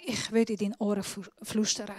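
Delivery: soft, hushed, close to the ear; quiet quoted God. Retold or imitated. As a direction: say it as an intimate murmur. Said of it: "Gott hat mir gesagt". (leise wie ins Ohr gesprochen)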